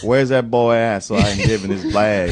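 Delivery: a hint of a low, gruff boss; lightly voiced tough guy. Friends mocking the movie, voicing Vin Diesel in a low mock voice.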